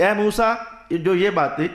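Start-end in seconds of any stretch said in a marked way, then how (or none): 0.0-0.5 a fuller call of the name; divine call. Retold or imitated. God calling out to Moses, a slightly raised call. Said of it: "یعنی وہ بات یہ تھی".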